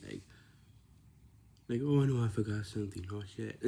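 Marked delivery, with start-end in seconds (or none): 1.8-3.6 mock dismay. Acted forgetful swearing example.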